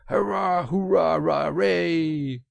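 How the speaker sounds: loud, high run of whoops; high-pitched celebratory cries; excited cheering. A narrator's reading. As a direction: cheer over and over, jubilant. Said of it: "Suddenly the Rat cried".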